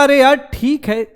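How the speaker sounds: high, slow, airy dismissal; carefree exclamation. Retold or imitated. Magician laughs off his worried wife, high and easy. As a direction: wave the worry away with a lilt.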